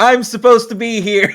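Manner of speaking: confident yell. Acting out a character yelling to guards while sneaking in: yelling in character. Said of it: "I yell out".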